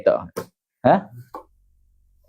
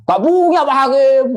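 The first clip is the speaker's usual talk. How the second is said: high, louder protest to the judge; acted complainant; 8 semitones higher, 3 dB louder than usual. Complainant admits to the judge having no evidence, high plea. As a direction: plead helplessly in a raised pitch.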